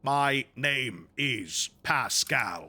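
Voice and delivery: very slow, processed drone; tech priest voice. Shown as a demonstration. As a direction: intone it like a machine. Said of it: "I need a voice for Tech Boy".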